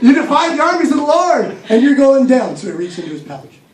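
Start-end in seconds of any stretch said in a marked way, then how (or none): 0.0-2.6 defiant challenge. Acted. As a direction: hurl the challenge at the giant. David challenges the giant again.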